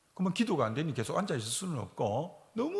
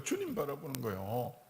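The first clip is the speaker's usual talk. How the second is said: 주님 softer, rising gently; soft echo; 2 semitones lower, 8 dB quieter than usual. Shown as a demonstration. Preacher softly echoes 주님 to the congregation. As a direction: breathe 주님 quietly back.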